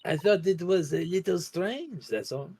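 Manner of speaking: measured, slightly lifted character voice; lightly voiced French witness. Witness answering questions about Monsieur Drebber, lightly voiced French character. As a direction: play a French witness, unhurried.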